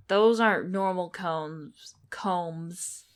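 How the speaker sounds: drawn out as it clicks into place; surprised realization. Real, not acted. Player spotting the music combs in the game, slow and loud with surprise.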